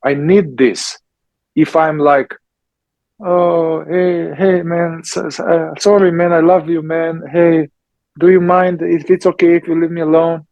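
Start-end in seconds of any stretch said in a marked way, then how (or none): 3.2-10.5 apologetic, meek and hurried, a touch fast; mock the pushover who asks nicely; timid pleading. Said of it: "That's not gonna work".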